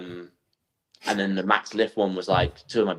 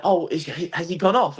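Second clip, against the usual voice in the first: lightly voiced onlooker, pitched up; puzzled spectator; 8 semitones higher than usual. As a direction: ask it high, imitating a puzzled spectator. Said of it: "she's like".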